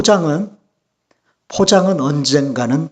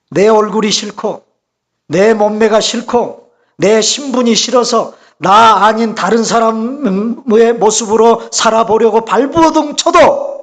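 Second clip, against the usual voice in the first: drawn-out preaching, building to a peak; emphatic preaching; 4 semitones higher, 3 dB louder, slower than usual. Real, not acted. Preacher warning against living as someone else, building emphatically. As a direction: preach it in slow, swelling phrases.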